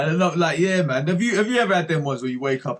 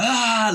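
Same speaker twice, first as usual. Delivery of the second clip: retold strangling grunt; 9 semitones higher, 5 dB louder than usual. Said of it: "like that, trying to strangle someone".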